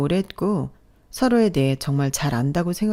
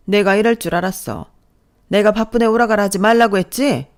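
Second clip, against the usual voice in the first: higher-pitched, contemptuous nagging; scolding mother-in-law; 3 semitones higher, 6 dB louder than usual. Acted. Mother-in-law belittling her son's wife, sneering. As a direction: sneer down at your daughter-in-law.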